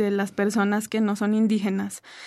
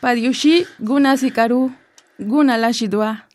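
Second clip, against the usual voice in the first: greeting in Zapotec. Shown as a demonstration. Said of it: "mandes un saludo a la banda en tu lengua".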